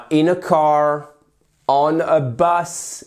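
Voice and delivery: very slow, deliberate demonstration; slow model phrases. Shown as a demonstration. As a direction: stretch each word out for the learners. Teacher slowly models both example phrases.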